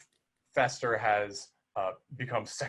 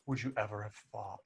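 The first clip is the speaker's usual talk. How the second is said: sorrowful Morticia; 6 dB quieter than usual. Retold or imitated. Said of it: "the sorrow in her face".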